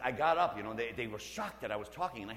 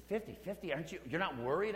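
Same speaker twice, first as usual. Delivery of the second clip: higher, incredulous echo of the odds; surprised monks; 6 semitones higher than usual. Retold or imitated. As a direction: echo it back in disbelief. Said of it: "And they said".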